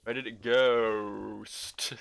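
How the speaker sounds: very slow, stretched-out last word; drawn-out mock query. Joking drawn-out repeat of the line.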